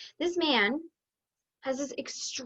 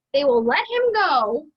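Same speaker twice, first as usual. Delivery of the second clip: usual speaking voice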